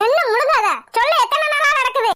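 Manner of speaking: high, impatient questioning; angry pressing. Acted. Elder sister pressing stalling girl, angry.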